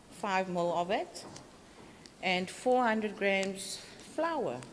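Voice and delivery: murmuring the amounts, hard to hear; too quiet. Real, not acted. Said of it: "Can you hear me?".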